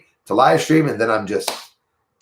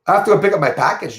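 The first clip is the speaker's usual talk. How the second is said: brisk, slightly raised delivery; quick announcement; 3 semitones higher, much faster than usual. Real, not acted. First take of repeated announcement.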